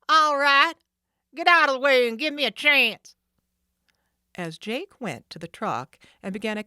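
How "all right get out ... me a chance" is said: loud, higher annoyed snap; irritated thug. Acted. Jake snapping at Sid, irritated. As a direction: push the boss off.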